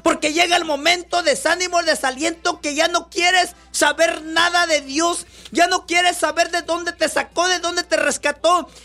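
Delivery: full-force pulpit preaching; fiery preaching. Acted. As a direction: drive the story home to the congregation.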